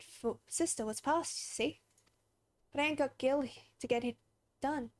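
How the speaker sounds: folksy, humble plea for a favour; a hint of a country townsperson asking for help; lightly voiced rustic villager. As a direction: read it as a plain-spoken villager. Voices game character asking help.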